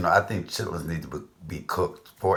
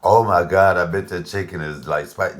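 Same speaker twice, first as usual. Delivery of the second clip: imitating a viewer gasping, loud on the first words; a hammed-up viewer reaction; mock shock; 7 dB louder than usual. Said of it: "don't go".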